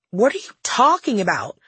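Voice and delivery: half-shouted, disbelieving retort; mild yell. Acted. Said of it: "I yelled".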